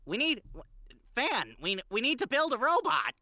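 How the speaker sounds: high, loud character voice; Test Tube voice. Acted. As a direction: pitch way up, eager and loud. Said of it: "can Jazzy do a test tube impression".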